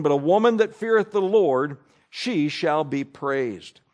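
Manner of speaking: measured, solemn reading of the King James verses; scripture reading. Acted. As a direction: read it like a pulpit lesson, steady and reverent. Reading Proverbs 31 aloud.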